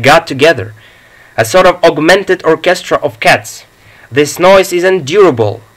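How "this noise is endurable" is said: a touch of a raised voice over the noise; lightly yelled complaint over cat racket; mild yell. Acted. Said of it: "yelled Sir Roderick".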